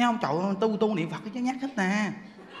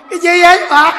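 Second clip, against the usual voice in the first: high, loud startled husband calling out; husband yelling what's wrong; alarmed shout; 9 semitones higher, 15 dB louder than usual. Retold or imitated. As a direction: shout it at the frozen wife in alarm. Frightened husband asks wife.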